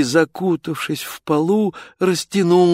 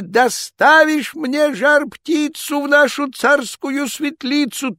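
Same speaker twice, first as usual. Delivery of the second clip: higher and louder than before the charge; loud threatening tsar; 12 semitones higher, 4 dB louder than usual. Acted. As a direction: shout the same demand. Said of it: "закричал он".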